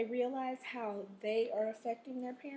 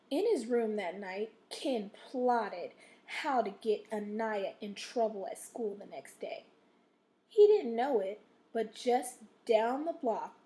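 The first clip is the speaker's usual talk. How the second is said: story read with pitch going up and down and key words stressed; slowed, emphatic read-aloud for the class; expressive read-aloud; 4 dB louder than usual. Shown as a demonstration. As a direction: read it like a storyteller building suspense. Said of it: "my voice went up and down in one sentence, and I stressed".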